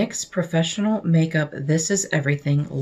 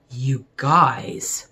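whispered to the viewers in awe; awed whisper; 4 semitones lower than usual. Real, not acted. Vlogger whispering to viewers over lipstick packaging, awed whisper. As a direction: breathe it out, amazed.

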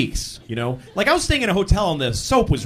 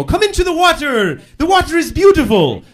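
put-on young Italian boys; 11 semitones higher, 5 dB louder than usual. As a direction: lure him along sweetly. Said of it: "and they go".

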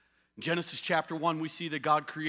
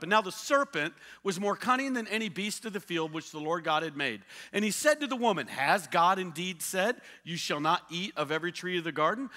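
measured Bible reading; scripture reading. Acted. Preacher reading the serpent passage, measured. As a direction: read Genesis plainly with weight.

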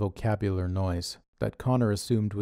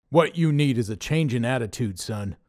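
louder, lecturing boss voice; preachy Dave; 3 semitones higher, 4 dB louder than usual. A narrator's reading. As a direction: talk down to him like a preachy leader. Dave starts a sermon.

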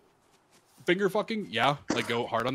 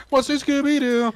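creepy monster voice; 13 semitones higher, 9 dB louder than usual. Acted. Creepy game voice.

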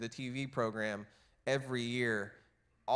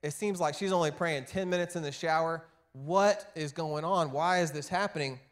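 mock annoyed; 4 semitones higher than usual. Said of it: "annoyed with God".

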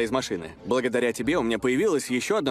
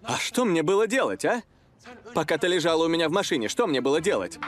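exasperated; 5 semitones higher than usual. Acted. Heated argument in the car aftermath.

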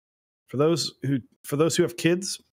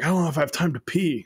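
quick, higher quoting voice; Kevin from The Office; 5 semitones higher, faster than usual. Retold or imitated. Quoting an office worker worried about time, lightly imitated. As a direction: lightly imitate a sitcom character. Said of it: "reminds me of Kevin from The Office".

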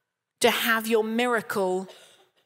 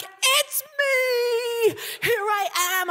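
high, bursting "it's me!"; quoting her own eager self, pitched way up; eager volunteering; 13 semitones higher than usual. Retold or imitated. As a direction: leap up and claim the word as yours. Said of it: "And I'm like".

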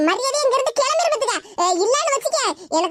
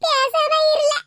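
higher, sharp shut-up to her son; snapping at him; 4 semitones higher, much slower than usual. Acted. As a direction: cut him off crossly. Mother snaps at son. (மகனை அதட்டும் கோபம்)

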